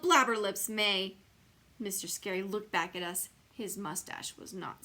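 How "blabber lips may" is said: yelled. Acted. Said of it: "I yelled".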